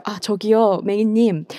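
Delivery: hesitant, hushed politeness; mock polite request. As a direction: ask very nicely for some quiet. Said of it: "곱게 예쁜 말로".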